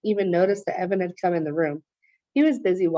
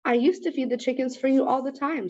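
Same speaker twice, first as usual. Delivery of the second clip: squeezed voice; 5 semitones higher than usual. Acted. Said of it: "his voice sounded funny, like it was being squeezed".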